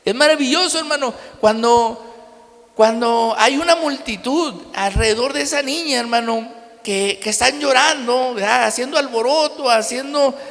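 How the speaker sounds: más fuerte, con fervor de púlpito; predicando con fuerza. Acted. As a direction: encendiendo a la congregación. Preaching with rising force. (predicación enfática y más fuerte)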